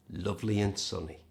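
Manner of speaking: and said as a quick schwa "un"; lovely un sunny, no D; reduced and. Shown as a demonstration. Teacher showing the reduced "and". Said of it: "Notice the word "and" here is reduced".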